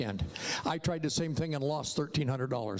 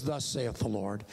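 solemn prophet; 6 semitones lower, slower than usual. Retold or imitated. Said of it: "it may not come as".

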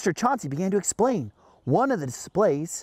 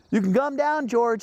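raised, high calling voice; called out; 8 semitones higher, slower than usual. Acted. Director telling George to climb down, called out high. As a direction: call up to someone, lightly acted. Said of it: "he called".

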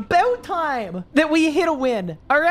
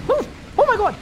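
shocked; 11 semitones higher, faster than usual. Real, not acted. Shocked after his own remark.

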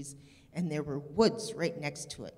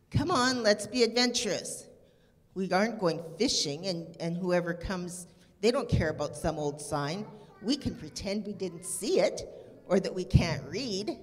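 put-on daring girl. Stella talking Jeremy into swimming, eager coaxing girl. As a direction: egg your friend on to break the rule. Stella voiced in read-aloud story.

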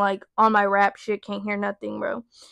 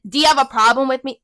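sassy challenge; 2 semitones higher, 6 dB louder, faster than usual. Retold or imitated. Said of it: "when someone is".

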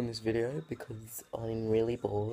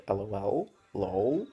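sarcastic mockery; 2 semitones higher than usual. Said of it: "I reply with".

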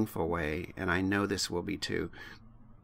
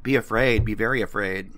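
lightly voiced ominous movie warning, louder; a hint of horror trailer menace; quoting The Fly for a friend; movie line quote; 7 dB louder than usual. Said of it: "You remember The Fly?".

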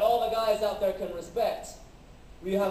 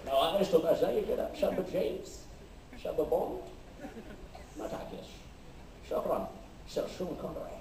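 Sean Connery impression; 3 dB quieter, much faster than usual. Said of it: "This is how it sounds like in Arabic".

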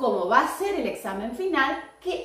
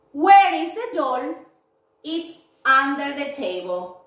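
teacher modelling questions and answers, slow and clear; slow classroom dialogue; slower than usual. Shown as a demonstration. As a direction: spell it out slowly for young learners. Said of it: "voy a hacer la última pregunta".

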